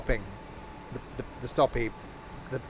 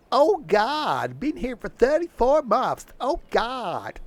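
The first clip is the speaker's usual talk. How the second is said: high, loud, whiny impersonation of a coworker; impression of colleague; 11 semitones higher, 6 dB louder, much slower than usual. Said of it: "that's exactly how he sounds".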